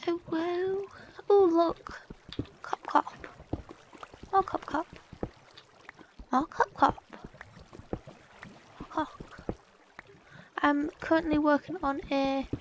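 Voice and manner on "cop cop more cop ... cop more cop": hiccup cop. Acted.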